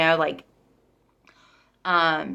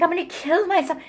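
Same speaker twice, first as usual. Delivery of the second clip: mock threat; 11 semitones higher than usual. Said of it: "he, like, flips out".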